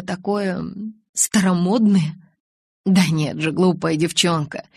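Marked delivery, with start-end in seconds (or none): 2.8-4.6 muffled, face pressed into shoulder; уткнувшись в плечо. Acted. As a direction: speak with face buried in shoulder. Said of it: "пробормотал он, уткнувшись в моё плечо". (приглушённо, уткнувшись в плечо)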